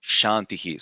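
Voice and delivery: "Shantihi" with the last vowel echoed; echoed final vowel. Shown as a demonstration. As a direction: let "Shantihi" end on an echo of its vowel. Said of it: "it is like the echoing".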